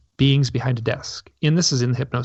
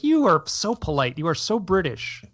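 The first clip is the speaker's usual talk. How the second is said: teasing callout; 5 semitones higher than usual. Retold or imitated. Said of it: "And I was like".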